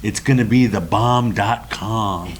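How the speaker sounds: slow, lightly mimicked catchphrase; quoting Sherman's catchphrase. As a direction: stretch it out like a borrowed slogan. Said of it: "as Sherman would say".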